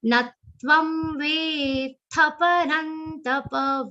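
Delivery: "Natvam" with the push on "tvam", chanted slowly; stress on ta. Shown as a demonstration. Teacher modelling consonant stress in a shloka. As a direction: lean into the "t" of "Natvam". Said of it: "na has aghat of ta".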